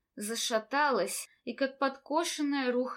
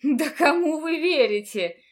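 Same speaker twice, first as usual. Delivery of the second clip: nervous indignation; 4 semitones higher, 8 dB louder than usual. A narrator's reading. Teacher repeats nervously.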